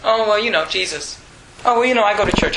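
hesitant imitation, trailing off on "Jesus"; lightly acted timidity, backing off; mock timid. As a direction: play a mildly sheepish believer. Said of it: "we get timid".

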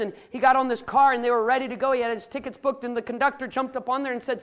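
forceful, animated preaching narrative; energetic sermon storytelling. Real, not acted. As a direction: launch into the illustration with pulpit energy.

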